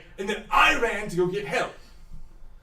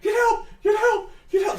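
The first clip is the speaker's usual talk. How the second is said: high, loud cry for help; shrill panicked shout; frantic yell; 4 dB louder than usual. Acted. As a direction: scream for help while fleeing. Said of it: "he's like".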